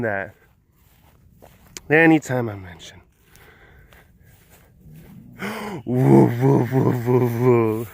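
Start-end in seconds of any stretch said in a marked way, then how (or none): 5.8-7.9 low wavering woo-woo; animal call. Real, not acted. Calling to the animal, low repeated woo-woo.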